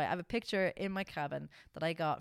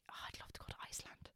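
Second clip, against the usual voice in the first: dreamy whisper; 19 dB quieter, much faster than usual. Retold or imitated.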